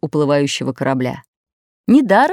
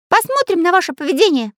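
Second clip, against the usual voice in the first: stern; 12 semitones higher than usual. A narrator's reading. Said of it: "строгим голосом ответил ему Карандаш".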